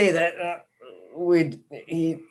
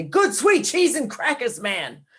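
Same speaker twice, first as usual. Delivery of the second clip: excited exclamation; 4 semitones higher than usual. Pretend. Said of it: "I'm just gonna say".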